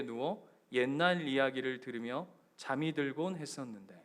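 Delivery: gentle poem recital; poem reading. Acted. Reads the grandmother's poem aloud.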